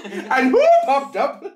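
high, slow echo through laughter; teasing a friend's Scottish impression; laughing mimicry. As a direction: parrot the line while cracking up. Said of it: "Oscar nominated".

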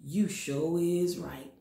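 sarcastic agreement. Pretend.

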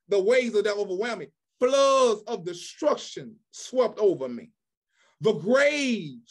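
emphatic pulpit reading with punched key words; scripture declamation. Acted. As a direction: proclaim it phrase by phrase, with weighty pauses.

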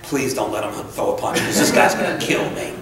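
low aside of a secret plea, retold; mock-worried thought behind the bravado; scared inner voice. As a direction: act out privately dreading a punch. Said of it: "I'm thinking in my head".

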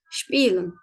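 "Spielen" with IE as long ee; German pronunciation demo. Shown as a demonstration. Teacher shows the IE rule, "Spielen" with long ee. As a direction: say "Spielen" as SHPEE-lın. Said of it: "I diye çıkarıyoruz".

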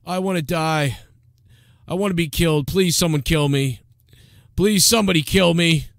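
mildly mock-pleading despair; a hint of a hopeless man begging; Opie. Opie's secret thoughts, half-hearted pleading despair. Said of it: "secret thoughts of, uh, Opie".

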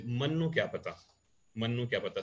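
Ambala-area Hindi dialect form. Shown as a demonstration. Teacher showing how Sadhaura speaks, in Ambala dialect. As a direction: say it as around Ambala. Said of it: "Sadhaura, you say".

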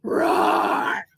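deep loud breathy roar; big dinosaur roar. Shown as a demonstration. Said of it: "show me your great big roar".

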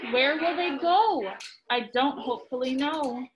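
lively storybook reading voice; reading to children. A narrator's reading. Parent reading Dr. Seuss aloud to a child, lively storybook voice. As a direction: read it out like a bedtime book to kids.

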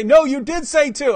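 high, loud imitation of an objector; put-on indignant comeback; mock insistence. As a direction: contradict stubbornly, in mimicry. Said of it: "And they say".

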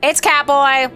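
high, loud fan outburst; gleeful, loud announcement of a favourite; excited squeal. Real, not acted. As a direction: burst out in high-pitched delight. Excited reaction to character appearing.

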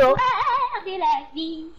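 slow, drawn-out, loud and grand; slow dramatic. Pretend. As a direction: stretch it like an epic. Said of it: "il a pété un steak avec son histoire de la vie".

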